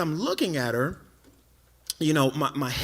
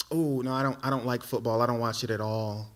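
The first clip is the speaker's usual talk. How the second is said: put-on girl's reply; 5 semitones lower, 4 dB quieter than usual.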